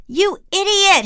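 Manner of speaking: very high, loud and slow furious cry; the furious king yelling at his servant; thundered. Acted. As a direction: explode at him. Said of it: "he thundered".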